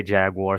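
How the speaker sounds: "Jaguar" said as JAG-war; low-pitched "Jaguar" ending like "war"; Guyanese pronunciation. Shown as a demonstration. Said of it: "The national animal is Jaguar".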